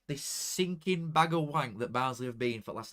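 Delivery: normal talking voice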